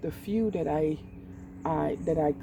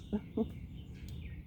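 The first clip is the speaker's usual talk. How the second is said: brief, quiet laugh; small self-conscious chuckle; soft chuckle; 6 semitones higher, 11 dB quieter than usual. Real, not acted. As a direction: chuckle softly at yourself. Amused at own digression.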